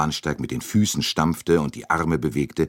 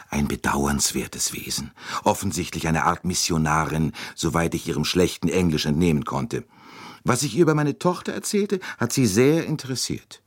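put-on chatty older American lady. Mrs Hubbard gossiping.

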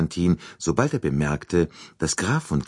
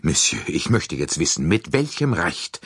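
flaring up. Acted. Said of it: "rief der Graf aufbrausend".

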